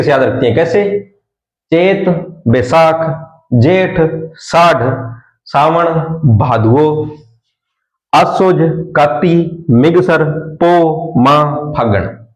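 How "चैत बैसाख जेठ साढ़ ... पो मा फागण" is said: slow, drawn-out Rajasthani village forms; Rajasthani month names. Shown as a demonstration. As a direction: chant the months the way grandmothers say them. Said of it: "ये होते हैं राजस्थानी भाषा में बोले जाते हैं जो".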